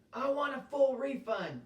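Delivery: high, loud, furious demand; red-faced client yelling for a refund; angry shout. Acted. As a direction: shout it at him, demanding your money back. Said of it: "the man shouted".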